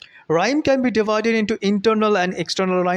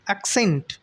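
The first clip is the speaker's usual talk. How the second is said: acCENT, weight on the final syllable; stress on second syllable; 3 dB quieter than usual. Shown as a demonstration. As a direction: demonstrate "accent" with the stress on CENT. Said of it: "putting stress on the word scent".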